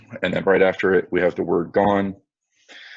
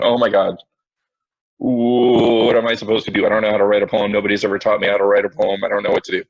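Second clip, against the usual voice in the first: mock freaking out; faster than usual. Teacher imitating students' messages about writing a poem, mock panic. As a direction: imitate a flustered rush of helpless complaints. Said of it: "people just freaking out".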